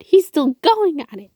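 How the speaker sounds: laughing. Acted. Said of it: "Skywarp laughed".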